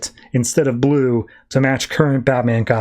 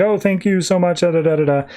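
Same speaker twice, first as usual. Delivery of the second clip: mildly gushing, higher-pitched thanks; super happy; 4 semitones higher than usual. Retold or imitated. Rescued girl thanks Batman, mock super happy. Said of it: "who's just super happy".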